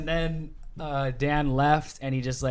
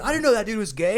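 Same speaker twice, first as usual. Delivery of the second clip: high-pitched, louder disbelief; mock astonishment; 8 semitones higher, 5 dB louder than usual. Jackson learning about Dustin, mock astonished. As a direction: keep the voice up in surprise.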